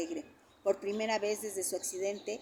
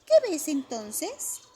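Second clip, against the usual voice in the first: put-on wondering child; 8 semitones higher, 8 dB louder, much slower than usual. A narrator's reading. Child asks slowly.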